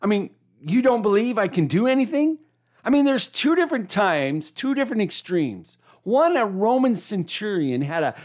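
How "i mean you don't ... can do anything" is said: disappointed. Retold or imitated. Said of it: "Other times he's like".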